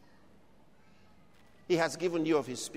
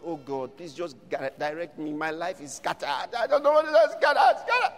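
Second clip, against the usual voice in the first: despairing prayer; 3 semitones lower, 4 dB louder than usual. Retold or imitated. Preacher mimics a lost believer's desperate plea. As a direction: play the lost soul crying out to God. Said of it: "That's what they're calling to God".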